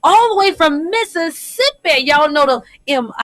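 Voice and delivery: radio host sign-off. Acted. Host signing off to listeners before the break, announcer voice. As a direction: sell the station before the break.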